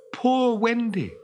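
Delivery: high, slow distant wail; plaintive cry. Acted. Wendy in flight, heard from below, plaintive cry. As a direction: call it out long and mournfully. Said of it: "they could hear it crying".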